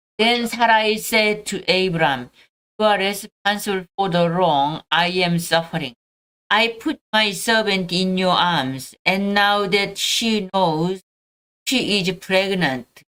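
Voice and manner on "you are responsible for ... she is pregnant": ordinary talk, nothing marked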